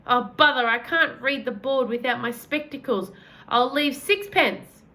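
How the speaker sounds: put-on a flustered old man squinting without his specs; an old tramp paying in old coins, flustered; fussy old gentleman. Old man fumbling for change.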